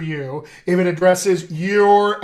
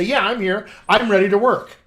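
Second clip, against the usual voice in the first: eager volunteer; 3 semitones higher, 5 dB louder than usual. Shown as a demonstration. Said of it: "you say".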